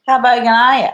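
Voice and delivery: loud, high-pitched bogan yell; mock shouted challenge. Bogan challenging her on how bogan she is, mock shout. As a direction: holler it like a rowdy bogan.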